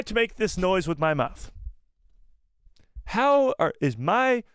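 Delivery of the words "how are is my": exasperated protest. Real, not acted. Protesting he cannot make noise.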